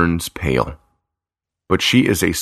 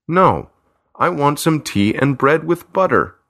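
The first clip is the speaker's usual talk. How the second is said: put-on higher, cross little girl refusing; angry; 8 semitones higher than usual. A narrator's reading. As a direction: stamp your foot, indignant child. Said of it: "Nancy says angrily".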